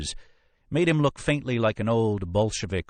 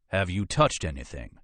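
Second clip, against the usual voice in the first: veiled threat. Acted. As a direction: ask it as a threat. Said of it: "It came out as a threat".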